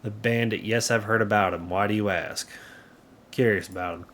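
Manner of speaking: reflective, lightly southern character read; light southern accent. Acted. Local parent reflects on the bandit, light southern accent. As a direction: tell it with a hint of southern accent. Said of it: "that is my southern accent".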